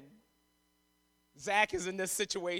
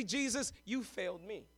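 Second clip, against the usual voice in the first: hushed accusation; 9 dB quieter than usual. Acted. Father's quiet accusation.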